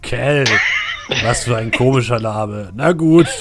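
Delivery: loud giant asking questions; a big stone knight, puzzled; booming knight voice. Acted. The knight asks for a name.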